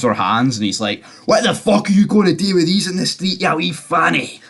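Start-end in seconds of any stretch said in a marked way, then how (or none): 1.3-4.4 high-pitched imitation of a scolding; mock scolding. Father grabbing his daughter's hands, mock scolding. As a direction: act out an exasperated telling-off, pitch raised.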